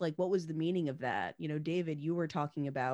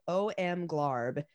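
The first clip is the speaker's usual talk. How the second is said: gushing; 3 semitones lower than usual. Retold or imitated. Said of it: "is like".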